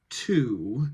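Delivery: "two" fully articulated with a long full vowel; strong-form "two". Shown as a demonstration. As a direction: articulate "two" clearly, drawn out. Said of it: "really articulate the word to".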